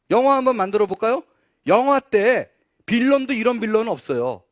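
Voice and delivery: loud, high-pitched sermon delivery; forceful preaching. Real, not acted. Preacher denouncing Peter's denial to the congregation, forceful. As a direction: drive it home at full voice.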